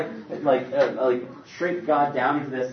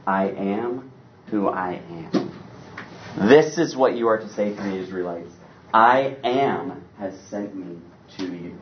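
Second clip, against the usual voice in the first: solemn voice of God; 4 semitones lower than usual. Acted. God's solemn answer.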